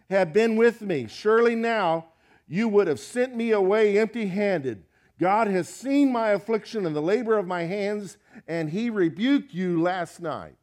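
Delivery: loud, fervent preaching of Jacob's complaint; Jacob's passionate rebuke. Acted. Preacher voicing Jacob as he rebukes Laban, loud and fervent. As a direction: let the wronged man pour out his grievance.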